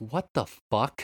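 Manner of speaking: put-on quiet mutter under breath. Retelling a woman flashing them, the speaker repeats their reaction, muttered under breath. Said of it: "in under my breath".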